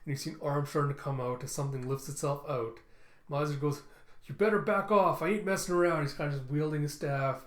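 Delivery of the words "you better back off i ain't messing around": loud, raised-pitch warning; threatening. Acted. Character wielding his staff at a creature, loud threat. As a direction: warn them off loudly, acting threatening.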